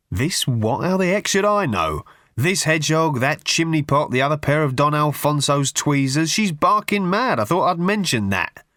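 an irritated brother mocking his sister; exasperated Russell. A narrator's reading.

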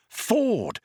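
high-pitched urgent hiss. A narrator's reading. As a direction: hiss the name to get attention. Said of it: "he hissed".

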